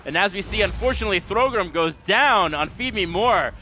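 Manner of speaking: steady, flowing esports commentary; live play-by-play. Real, not acted. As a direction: call the action as it unfolds, gradually lifting.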